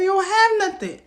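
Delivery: high loud yell on "You don't have nothing"; retold yell. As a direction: scream the final insult. Climax of her rant.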